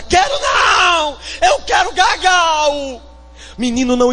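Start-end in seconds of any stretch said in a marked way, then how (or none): 0.0-3.0 high, shouted tantrum voice; shouting child. Acted. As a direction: yell it like a toddler in a tantrum. (criança gritando birrenta)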